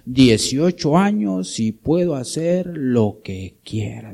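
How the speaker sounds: a lightly voiced teen girl insisting, loud at the start; hammed-up stubborn "I'm eighteen"; mock defiant daughter. Preacher mimics rebellious girls defying their parents, a touch loud and mocking. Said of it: "dicen algunas".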